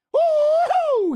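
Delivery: high, far-off cartoonish woo-hoo; mocking cheer for the fleeing driver. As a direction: sing it out like they just got away. The other driver took off.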